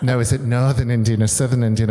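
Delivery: lightly breathy Hull accent, imitating a fussy friend; a hint of a breathy Hull woman being polite; Marion's breathy Hull voice. Fussy friend from Hull accepting tea, lightly breathy Hull accent. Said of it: "Marion's from Hull and talks like that. Everything's very breathy".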